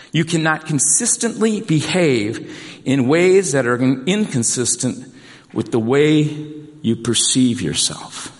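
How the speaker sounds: slow, deliberate restatement with pauses between phrases. Shown as a demonstration. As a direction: say it slowly, phrase by phrase, so it sinks in. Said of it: "I'll say it a little slower".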